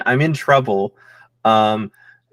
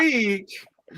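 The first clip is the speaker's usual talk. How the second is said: squeaky hamster; 6 semitones higher, 5 dB quieter than usual. Acted. Speaking as hamster.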